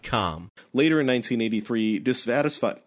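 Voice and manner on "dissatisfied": "dissatisfied" with a breaking voice; voice cracking. Real, not acted. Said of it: "why can't I say the word dissatisfied today without my voice cracking".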